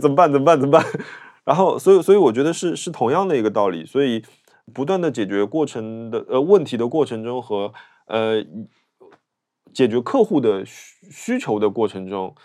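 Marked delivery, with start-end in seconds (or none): 0.0-0.8 loud, flustered, fretful, nervous panic. Retelling being asked to photograph a colleague for a marriage certificate: acting out nervous panic. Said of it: "我好紧张".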